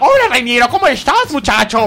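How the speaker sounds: put-on little old man coach voice. Voicing the trainer greeting reiniero, voice of the old coach. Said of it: "esta voz!".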